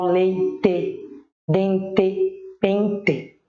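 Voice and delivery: "leite, dente, pente" slow, each ending in a clear TE; careful spelling-style "leite, dente, pente"; final E. Shown as a demonstration. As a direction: give "leite, dente, pente" full E endings, pausing between. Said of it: "com E".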